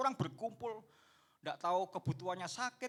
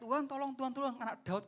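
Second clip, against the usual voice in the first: raised, higher desperate plea; a begging woman's cry, pitched up; crying out for help; 7 semitones higher, 4 dB louder than usual. Retold or imitated. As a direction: call out to the Lord for help. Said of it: "dan berteriak-teriak".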